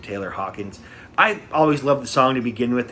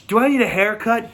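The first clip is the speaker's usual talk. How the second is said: raised, higher-pitched showman's question; imitating singer addressing crowd; 9 semitones higher, 4 dB louder than usual. Singer asks the audience after choking on hair, imitated call-out. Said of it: "he goes to the audience".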